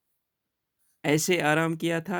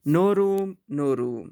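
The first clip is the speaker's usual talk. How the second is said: a loud, high cry of no room, then dropping back; 3 semitones higher, 5 dB louder, much slower than usual. Acted. March Hare and Hatter crying out at Elias, a loud cry. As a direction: shoo her away with a loud cry. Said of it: "they cried out when they saw Elias coming".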